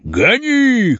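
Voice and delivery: high, sharp command to drive; urgent high-pitched command; shouted order. A narrator's reading. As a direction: bark at the driver to go. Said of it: "крикнул старшина".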